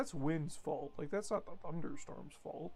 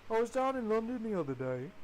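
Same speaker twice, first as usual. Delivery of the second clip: put-on a failed British accent, slightly higher; 5 semitones higher than usual. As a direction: try a British accent and miss. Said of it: "I'm trying to do, like, a British accent right now".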